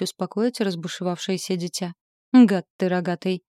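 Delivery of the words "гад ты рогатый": louder, furious cry at him; angry shout. Acted. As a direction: yell the insult in rage. Heroine yells at demon.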